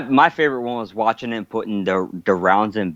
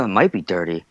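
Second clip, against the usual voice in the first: lower, mildly resigned reply; imitated unsure echo; 4 semitones lower than usual. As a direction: echo the suggestion back, dropping the pitch. Lieutenant echoes coach's suggestion.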